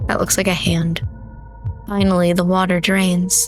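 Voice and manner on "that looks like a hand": unvoiced horrified whisper; hushed aside, as if scared. Real, not acted. Reader reacts to horror scene.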